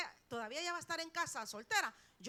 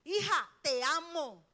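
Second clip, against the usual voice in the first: tender demo; 7 dB louder than usual. Shown as a demonstration. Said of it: "Póngale la mano y dígale".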